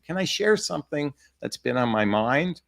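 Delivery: invite, don't alarm; calm inviting tone; gentle invitation. Shown as a demonstration. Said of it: "Can you see the difference between the two?".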